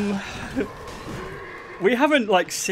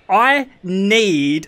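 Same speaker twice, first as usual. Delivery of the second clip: "need" drawn out and pushed louder; stress on need; 5 dB louder than usual. Retold or imitated. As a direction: lean hard on "need" as if in capitals. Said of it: "she put in all caps for the need".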